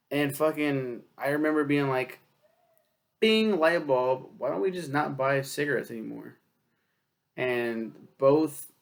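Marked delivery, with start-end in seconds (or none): 3.2-6.4 excited idea. Retold or imitated. Retelling his bright idea.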